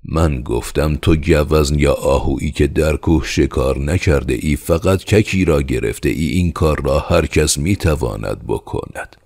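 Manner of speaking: a touch of fed-up insistence; out of patience. Acted. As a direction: spell it out with impatience. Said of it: "شکیبایی خود را از دست داده بود".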